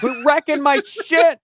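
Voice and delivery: high, slow put-upon dad; hammed-up tired dad; mock exasperated parent. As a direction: whine it like a fed-up father. Imitating himself as parent.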